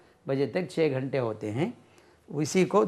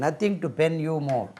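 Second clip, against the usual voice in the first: Nothing to pen you more said slowly with weight on Nothing; slow, nothing stressed; slower than usual. Shown as a demonstration. Teacher reading the example phrase slowly. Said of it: "पेन verb में इस्तेमाल होता है".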